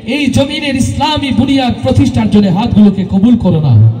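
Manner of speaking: rising, impassioned supplication; fervent prayer. Acted.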